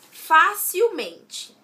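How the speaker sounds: "facilmente" drawn out very slowly, high and loud; stress on FÁ. Shown as a demonstration. Teacher presenting an example of joined words, "facilmente" slow and emphatic. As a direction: stretch "facilmente" out, hitting the FA firmly. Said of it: "fácil já está acentuado no Fá".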